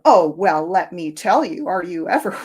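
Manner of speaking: arms-crossed gloating, half laughing; mock snarky retort. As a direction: play the smug know-it-all you refuse to be. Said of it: "instead of crossing your arms and going".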